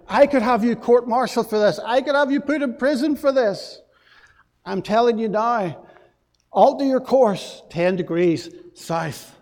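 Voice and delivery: mock fury, threatening court-martial; furious captain. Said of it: "the captain by this time was furious".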